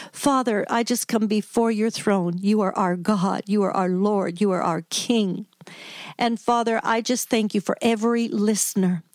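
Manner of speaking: host's guest praying aloud for grieving listeners, earnest; spoken prayer. Acted. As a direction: pray over the listeners, steady and sincere. Leads a prayer on air.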